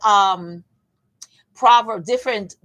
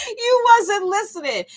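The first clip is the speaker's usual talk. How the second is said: high-pitched comic reproach; squealed, playful telling-off; mock scolding; 11 semitones higher, 3 dB louder than usual.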